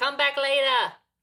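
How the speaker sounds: put-on New York accent. Showing how you could suddenly be a New Yorker, in a put-on New Yorker voice. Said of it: "You could suddenly be a New Yorker and be like".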